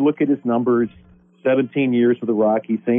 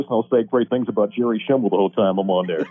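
Mark Johnson impression; 3 semitones lower than usual. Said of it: "what I'll do is just talk like this".

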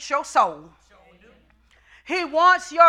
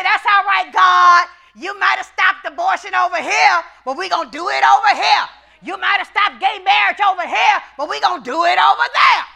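shouted mocking defiance; defiant crowd; 3 semitones higher, 4 dB louder than usual. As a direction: hurl it at God defiantly. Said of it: "They say".

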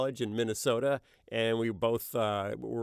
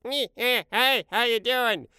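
friend's boss imitation; 12 semitones higher, 6 dB louder than usual. Shown as a demonstration. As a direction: squeeze it up high and drag the greeting out. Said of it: "And the speaker's imitation was".

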